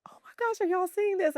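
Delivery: squealing high then dropping to a breathless whisper; retold freaking out. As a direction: relive the shock of the butterfly landing, gasping it out. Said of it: "And I'm freaking out".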